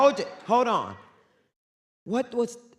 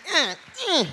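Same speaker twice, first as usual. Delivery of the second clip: Michelle; 9 semitones higher, 5 dB louder than usual. Retold or imitated. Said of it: "Michelle's like".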